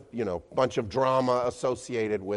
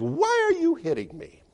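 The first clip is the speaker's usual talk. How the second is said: high, hurt little donkey voice; talking donkey. Acted. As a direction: squeak it out like a wronged donkey. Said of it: "And the donkey says".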